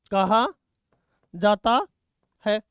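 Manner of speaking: each word set apart by a pause; halting, spaced-out classroom dictation. Real, not acted. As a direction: dictate word by word for students writing it down. Dictating words for students to write.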